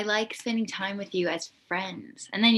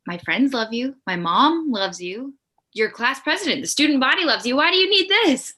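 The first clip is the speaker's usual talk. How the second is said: rising louder and higher to a near shout; building outburst; 7 semitones higher, 9 dB louder than usual. Acted. Heidi loses patience with her boyfriend, mounting to an exasperated shout. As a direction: let the frustration climb line by line.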